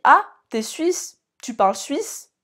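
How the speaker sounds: slow, loud, naive mock question; a hammed-up naive Frenchman, drawn out; mocking French tourist. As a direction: play the clueless French visitor asking it. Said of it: "Quand on me dit".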